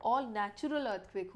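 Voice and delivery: "all natural" said slowly and deliberately; weight both "all" and "natural"; slow, careful emphasis on "all" and "natural"; stress on key words. Shown as a demonstration. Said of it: "दो words पे stress देना है".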